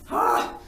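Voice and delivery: loud breathy "ah" of dismay; acted gasp. Retold gasp of dismay underwater.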